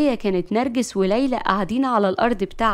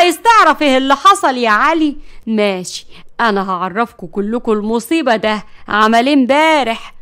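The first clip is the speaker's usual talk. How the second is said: furious; 6 dB louder than usual. Acted. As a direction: build up to exposing him. Narges furious, about to expose.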